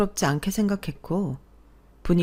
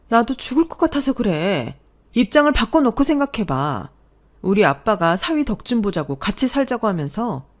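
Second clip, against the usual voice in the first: higher and louder, near breaking point; desperate heated plea; 4 semitones higher, 4 dB louder than usual. Acted. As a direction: make him feel how unbearable it is. Wife pleads during divorce talk. (지쳐서 울분을 터뜨리는 목소리)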